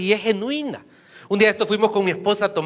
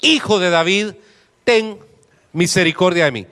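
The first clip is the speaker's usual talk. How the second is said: mild raised call, broken into pieces; crying out. Acted. Preacher reading the blind beggar's plea to Jesus, mildly crying out. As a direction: call out in separate, spaced bursts. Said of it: "Entonces dio voces diciendo".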